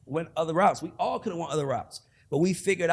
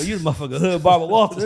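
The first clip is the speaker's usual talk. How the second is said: louder, laughing jab at the host; excited teasing; 10 dB louder than usual. Real, not acted. Ribbing the host about his tough question, loud and excited. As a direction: hype him up as a hood interviewer.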